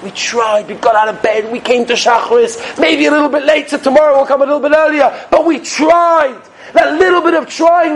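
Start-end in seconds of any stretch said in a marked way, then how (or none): 5.3-7.9 rousing emphasis. Real, not acted. Preacher stirring the congregation, raised and urgent. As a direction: lift it up and call it out.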